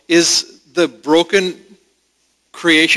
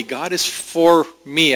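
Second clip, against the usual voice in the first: slow affirmation. Shown as a demonstration. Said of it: "I hope you can all affirm that".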